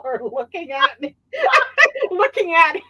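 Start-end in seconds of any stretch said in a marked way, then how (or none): 1.3-2.1 high, loud mock sobbing; hammed-up crying with laughter in it; fake cry. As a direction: wail in pretend tears. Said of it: "started to do a fake cry".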